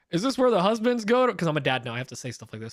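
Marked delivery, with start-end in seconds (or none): 0.1-1.3 joking dad line. Retold or imitated. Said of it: "I jokingly go".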